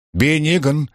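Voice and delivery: high sharp call of a name; angry call. A narrator's reading. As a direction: call him, annoyed. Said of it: "воскликнула Йовина".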